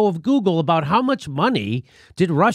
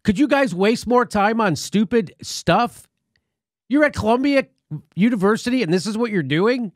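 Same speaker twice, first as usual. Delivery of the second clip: higher, scornful scolding; exasperated; 4 semitones higher than usual. Real, not acted. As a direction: scold them in disbelief. Scolding the researchers.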